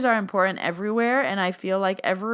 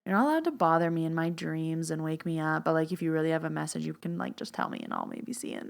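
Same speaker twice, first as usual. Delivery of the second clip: softer, fading into a whispered mumble; wishy-washy boundary; 2 semitones lower, 6 dB quieter than usual. Shown as a demonstration. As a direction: lose all conviction as you go, trailing away. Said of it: "So this isn't".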